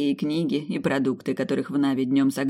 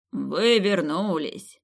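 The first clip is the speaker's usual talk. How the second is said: slow, delighted call; slow happy exclaim; glad exclamation; 3 semitones higher, much slower than usual. Acted. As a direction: greet them with joy. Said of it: "радостно воскликнул он".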